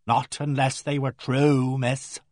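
slow, pointed insinuation; slow, knowing reply hinting at the truth; meaningful hint. Acted. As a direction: let the hint sink in slowly. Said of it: "said with meaning".

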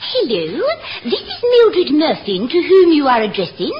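put-on posh phone voice; posh telephone voice. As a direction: answer the phone like a posh lady. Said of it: "You don't need your posh voice".

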